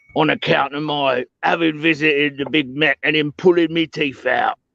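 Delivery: comic put-on orc voice with Cockney accent. Showing how to play an orc in a role-playing game: funny orc accent. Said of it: "putting on a funny orc accent".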